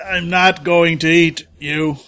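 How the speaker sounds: pointed slow denial. Acted. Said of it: "distinctly leaves Morale out of it".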